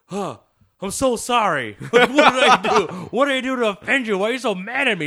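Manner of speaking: high, loud, laughing apologies; flustered and cracking up while pleading; laughing mock apology. Retelling his flustered apology.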